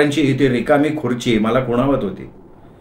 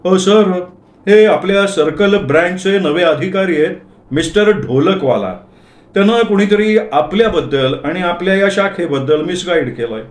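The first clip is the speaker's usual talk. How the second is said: higher-pitched, respectful introduction; deferential; 4 semitones higher than usual. Acted. Accountant introducing a visiting officer to his boss, deferential. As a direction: address a superior with courteous deference. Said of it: "माझ्याकडे बघून अदबीनं म्हणाले".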